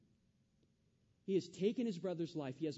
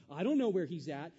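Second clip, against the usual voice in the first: lying Cain; 9 dB louder than usual. Acted. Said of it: "He lies to God".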